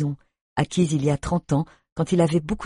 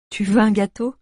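put-on shy young woman; 5 semitones higher, 3 dB louder than usual. A narrator's reading. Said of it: "Tu vois que ce n'est pas si compliqué".

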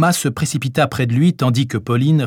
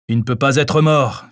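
categorical; 3 semitones higher than usual. Acted. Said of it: "fit-il catégorique".

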